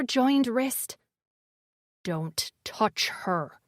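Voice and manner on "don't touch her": low, slow, soft growl. A narrator's reading. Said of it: "he growled".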